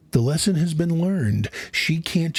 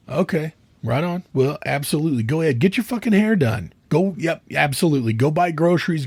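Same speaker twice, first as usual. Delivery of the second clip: sarcastic husband; faster than usual. Acted. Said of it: "Practice with me".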